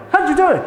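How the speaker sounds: "How you doing" linked up, high-pitched; juncture. Shown as a demonstration. Teacher repeating the joined form for learners, "How you" run together. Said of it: "So they say".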